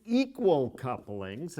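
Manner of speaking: "equal" picked out with emphasis; stress on equal. Real, not acted. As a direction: lean on the word "equal". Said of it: "and I emphasize equal".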